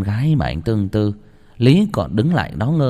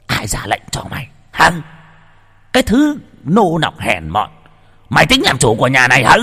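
enraged master; 4 semitones higher, 4 dB louder than usual. A narrator's reading. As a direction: berate the servant while whipping her. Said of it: "Lão Mai giận đỏ cả mặt". (lão chủ giận dữ quát tháo)

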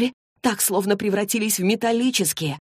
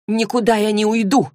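stubborn refusal, pitched higher; 4 semitones higher, 4 dB louder than usual. Acted. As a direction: refuse to budge. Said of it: "упрямо ответила Клэри". (упрямо, повысив голос)

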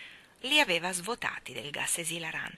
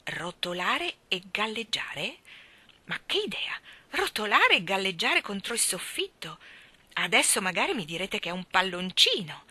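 indignant scorn. Acted. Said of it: "arricciò il naso indignata".

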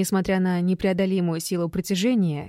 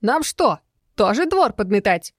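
squeaky voice; 2 semitones higher, 4 dB louder than usual. A narrator's reading. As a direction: squeak it out in protest. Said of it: "своим писклявым голоском".

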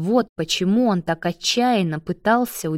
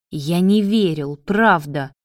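ordinary talk

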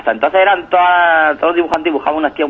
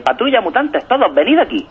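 raised, higher-pitched call to the team; mock yell; 8 semitones higher than usual. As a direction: call everyone over, a mock shout. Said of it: "Y se ve una gritando". (llamada a gritos, de broma)

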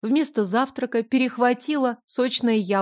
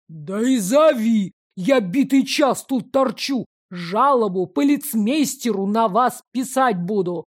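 snapping back. Acted. Father snaps back at the steward, angry retort. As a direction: snap back at him. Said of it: "огрызнулся Филаретов-старший".

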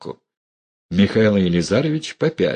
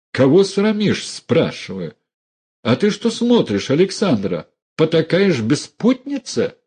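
high, outraged demand; angry scolding; 8 semitones higher than usual. Acted. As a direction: shame them both. Uncle scolds niece and mother.

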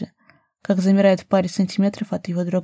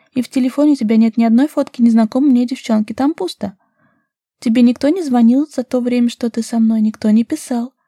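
put-on higher, louder, daring girl's voice; young woman challenging her lover, higher and louder; bold young woman; 4 semitones higher, 8 dB louder than usual. A narrator's reading. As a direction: play her cocky and unafraid.

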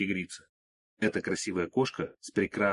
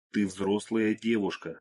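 put-on slow, preachy lecture to a girl; lecturing; slower than usual. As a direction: spell it out like a scolding teacher. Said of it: "назидательно произнёс я".

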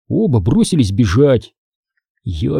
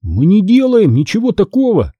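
put-on higher indignant boy; boy protesting to old man; 8 semitones higher than usual. A narrator's reading. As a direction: push back, indignant. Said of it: "запротестовал я".

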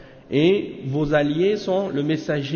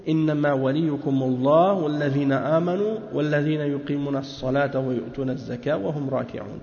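quick recited reading of a scholarly text; fast Arabic scholarly reading; rapid Arabic text reading; much faster than usual. Acted. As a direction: rattle off the Arabic passage fast and even. Reads Arabic text of the sheikh.

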